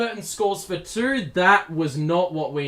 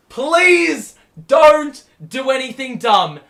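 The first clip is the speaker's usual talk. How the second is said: tense plea; 6 semitones higher, 10 dB louder, slower than usual. Real, not acted. Nervous pleading late in game.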